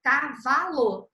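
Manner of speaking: "Cavalo" drawn out in slow separate syllables; "Cavalo" devagar, sílaba por sílaba. Shown as a demonstration. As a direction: sound out "Cavalo" slowly. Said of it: "Como é que fica de novo?".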